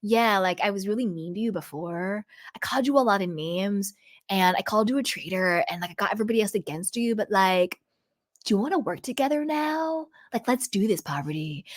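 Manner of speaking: mock suave F-boy pitch, hurried. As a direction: play a smug guy sweet-talking her after being mean. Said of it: "F-boy energy".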